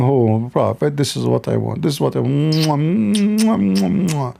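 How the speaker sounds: half-hearted mocking smooches; mock kisses. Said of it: "saying to him".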